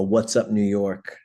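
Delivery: drawn-out frontman shout-out, lightly voiced; mild mock concert call; retold stage greeting. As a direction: greet the crowd slowly, at half strength. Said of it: "I give him a".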